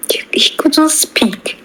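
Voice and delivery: breathy whisper, slowed; half-whispered telling of a silent moment. Retold or imitated. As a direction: hush it as if he has lost his voice. Father unable to speak.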